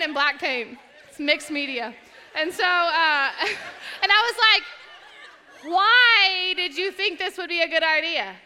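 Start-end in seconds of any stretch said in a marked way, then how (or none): 5.7-8.3 laughing, high exasperated question; laughing high exasperation; laughing disbelief. Real, not acted.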